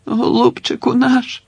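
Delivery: high tearful lament, pitched well up; sobbing. Acted. A woman in the crowd weeps over the dead man. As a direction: mourn him with a sob in the throat. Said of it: "схлипнули з другого боку".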